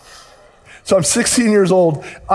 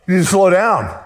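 much higher and louder, startled whoa fella; alarmed examiner; 4 semitones higher, 4 dB louder than usual. Retold or imitated. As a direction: pull the reins on a speeding kid. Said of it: "And she says".

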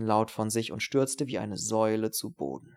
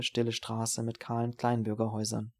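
ordinary delivery, nothing marked

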